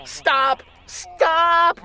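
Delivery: high rising double cry; little sister screaming stop; screamed. A narrator's reading. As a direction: call it out in panic. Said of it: "my little sister screamed".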